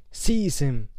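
loud screamed order. Acted. Voldemort ordering Quirrell with a loud scream. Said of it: "Voldemort screamed".

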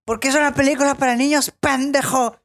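imitating a furious dad lashing out; retold angry outburst. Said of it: "se voltea bien enojado y le dice".

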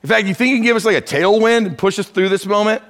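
fast, casual mock asking of the wind; mock polite request. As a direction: ham up a timid favour-asking. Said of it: "He, he didn't suggest to the wind".

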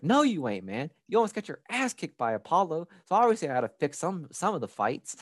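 lightly voiced gruff old trainer; Mickey telling Rocky the truth. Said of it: "Mickey was like".

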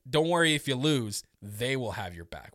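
"they" set apart after a short pause; pointed retelling. Retold or imitated. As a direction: quote it with weight on "they". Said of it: "the way he says it makes me think".

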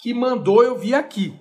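leve encenação de um espectador, mais agudo e forte; comentário encenado. Pretend. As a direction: abra num "Ah" animado, como quem comenta. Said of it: "fala assim". (recado de espectador levemente encenado)

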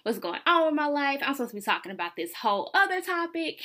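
fast and loud, laughing it off; sassy brush-off. Retold or imitated. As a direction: tell your best friend you've got no time for this. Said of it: "So I'm like".

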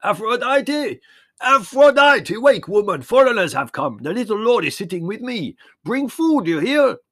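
high, very loud call towards the house; old shepherd's full-voiced roar. A narrator's reading. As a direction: bellow for your wife to wake up. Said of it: "he roared".

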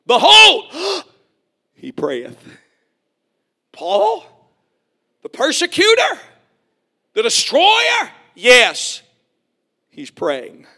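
loud high "Behold", then a gasped, hushed "he prayeth"; dramatic reveal. Acted. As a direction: proclaim it, then drop to an awed gasp. Dramatic scripture reveal with gasp.

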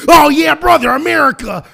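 redneck whoop. Retold or imitated.

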